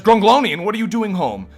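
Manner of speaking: mom voice. Acted. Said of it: "and she says".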